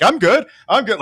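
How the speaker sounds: mock tipsy confidence. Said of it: "You're like".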